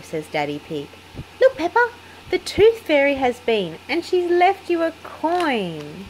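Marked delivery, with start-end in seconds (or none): 1.4-6.1 excited reveal. A narrator's reading. Daddy shows the coin.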